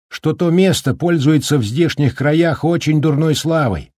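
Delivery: выше, настойчивое предупреждение вслух; громко предостеречь сквозь ветер; голос Даркина, предупреждение. Acted. (серьёзное предупреждение Даркина вслух)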